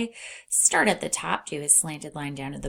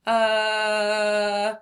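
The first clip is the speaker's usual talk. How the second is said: questioning uh; 3 semitones higher, 4 dB louder than usual. Shown as a demonstration. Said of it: "a questioning sound".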